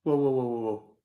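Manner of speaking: loud startled exclamation; startled whoa. Real, not acted. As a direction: call out in alarm. Board suddenly moves.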